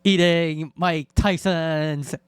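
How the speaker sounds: laughing through the words; cracking up mid-sentence. Real, not acted. Laughing at a replayed clip.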